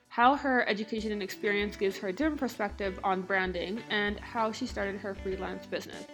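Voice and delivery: talking around a mouth retainer; slight lisp, plastic in the mouth; lisp from jaw surgery. Real, not acted. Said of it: "so if it sounds like I have a lisp".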